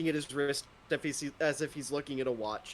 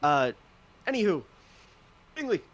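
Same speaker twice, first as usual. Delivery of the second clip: lightly voiced drow. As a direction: lean back and chat it easily. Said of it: "he leans back and he goes".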